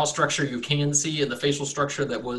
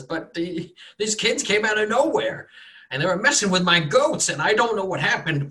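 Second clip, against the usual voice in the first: higher, louder anxious farmer; distressed farmer; 7 semitones higher, 3 dB louder than usual. Acted. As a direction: plead that you did all you could.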